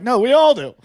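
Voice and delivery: high, loud laughing falsetto; mock cop confession. Cop Gary admitting it, in a high laughing voice. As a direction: blurt it out in a squeaky giggle. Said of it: "Gary would be like".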